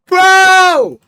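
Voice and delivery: high, loud yelp of disbelief; scandalized holler; shocked outcry. Real, not acted. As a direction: cry out high, stunned and amused. Cracking up at played audio.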